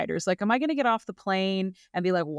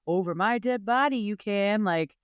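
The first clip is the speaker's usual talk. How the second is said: mock Boston accent sliding into Australian; Boston accent drifting Australian; slower than usual. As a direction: start Boston, end up sounding Aussie. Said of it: "I got real Australian there at the end of my Boston accent".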